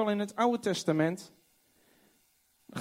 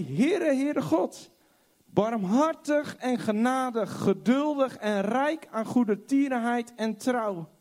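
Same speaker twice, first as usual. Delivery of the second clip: proclaiming God; 5 semitones higher than usual. Acted. God proclaims his own name.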